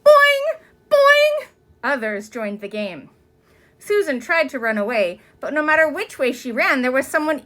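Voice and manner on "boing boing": high, loud repeated boing; a crowd of kids teasing. A narrator's reading. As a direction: gleefully tease again and again. Children teasing.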